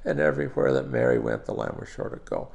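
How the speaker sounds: sing-song spoken rhyme; lilting nursery verse; nursery rhyme rhythm. Shown as a demonstration. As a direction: recite with a regular bouncing beat. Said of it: "so they can feel the rhythm of it".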